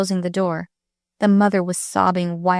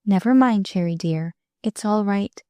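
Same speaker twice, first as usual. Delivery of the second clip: gentle, controlled. Acted. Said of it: "with gentle, controlled voice".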